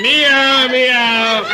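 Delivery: high, loud hammed-up meow; mock cat meow. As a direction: mew like a cartoon cat. Drunk imitates animal sounds.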